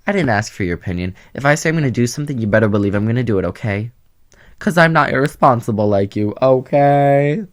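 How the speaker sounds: snippy, fast comeback to critics; sassy retort. Acted. Vlogger snapping back at viewers who doubt him, sassy. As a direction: tell the critics off with attitude. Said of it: "to all those people, I say".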